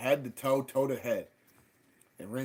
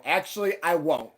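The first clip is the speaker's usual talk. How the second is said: defiant; 2 semitones higher, 5 dB louder than usual. Retold or imitated. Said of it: "And I go".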